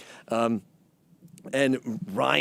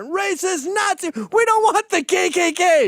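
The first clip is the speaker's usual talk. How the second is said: high, mocking protester voice. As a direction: sneer it like a shrill heckler. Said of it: "everyone's giving the finger".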